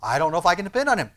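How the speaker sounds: acted doubt, hurried and loud; doubter's protest. Preacher voicing a doubter of the Lord, quick protest.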